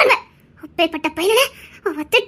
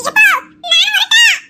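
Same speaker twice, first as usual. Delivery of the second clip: timid high call; 10 semitones higher, 4 dB louder, slower than usual. Acted.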